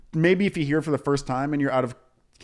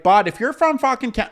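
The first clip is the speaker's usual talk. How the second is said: higher, louder exaggerated Canadian bro voice; mock Canadian accent; 11 semitones higher, 8 dB louder than usual. Mocking TikTok Canadians in a thick Canadian accent. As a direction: ham up a Canadian hockey accent. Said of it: "purposely do a Canadian voice".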